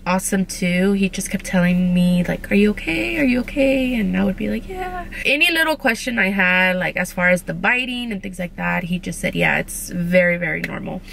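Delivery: talking through metal braces; speaking with new braces. Real, not acted. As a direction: mouth full of braces. Seen 2: Metal brackets visible on teeth at +8.0, +14.1 and +19.0.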